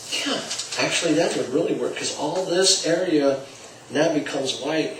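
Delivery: acting thoughtful. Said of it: "See, I'm acting".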